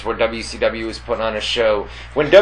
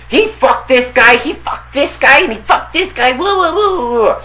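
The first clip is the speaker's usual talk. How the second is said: frantic neighbor; 11 semitones higher than usual. Retold or imitated. Beaten Russian neighbor showing his lip, high and frantic.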